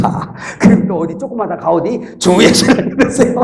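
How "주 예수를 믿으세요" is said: higher mock evangelist's call breaking into laughter; street-preaching call. Preacher resuming outreach after police leave, comic street call.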